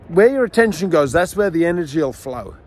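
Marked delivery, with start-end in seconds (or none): none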